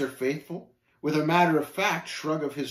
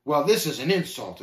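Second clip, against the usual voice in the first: indignant protest, only mildly raised; understated angry outburst; exploding. Acted. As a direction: take offence, a touch of outrage. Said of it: "exploded talkative".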